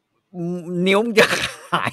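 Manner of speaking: very slow, slightly high warning; Gordon Ramsay warning. Retold or imitated. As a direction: drag out the threat word by word. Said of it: "กอร์ดอน แรมซี่บอก".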